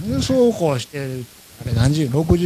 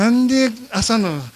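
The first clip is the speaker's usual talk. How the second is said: higher, exclaimed mock incredulity; self-mocking disbelief; 4 semitones higher, 4 dB louder than usual. Traveller amazed he bought a Switch at nine, incredulous. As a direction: marvel at your own folly, near laughing. Incredulous at his own purchase.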